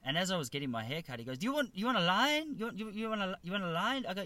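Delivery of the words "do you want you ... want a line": put-on higher, rough Asian-accented question; badly faked Asian accent, pitched up; mock Asian accent. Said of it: "do the Asian accent".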